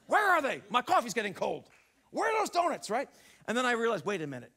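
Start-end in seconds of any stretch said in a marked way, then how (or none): 0.1-2.9 frantic searching. Retold or imitated. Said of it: "now I'm seeking".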